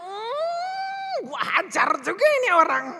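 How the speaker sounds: put-on a mother about to blow up at her kid; mock menacing mutter to oneself; snapping mother. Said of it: "Langsung ngomongnya langsung brak gitu".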